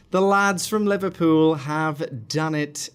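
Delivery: victorious fan announcing the win; proud announcement. Real, not acted. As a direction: proclaim it like a commentator.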